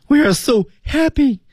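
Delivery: high-pitched, gleeful demonstration; very happy. Shown as a demonstration. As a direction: overdo the happiness, pitch soaring. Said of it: "我们特别开心". (特别开心，夸张高扬)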